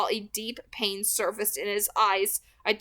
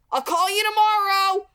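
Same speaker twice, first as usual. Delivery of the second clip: higher, louder yell across the yard; 11 semitones higher, 8 dB louder than usual. A narrator's reading. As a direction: call it out loud as you leave. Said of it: "I yelled".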